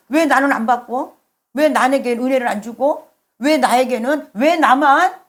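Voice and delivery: resentful complaint. Acted. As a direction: act out blaming God, rising toward the end. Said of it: "여기는 하나님을 원망하는 거예요". (억울한 듯 원망하는 말투)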